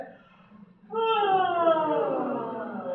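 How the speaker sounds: long high voiced yawn; yawning sigh. Shown as a demonstration. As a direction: yawn out loud with voice. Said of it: "try to do a yawn".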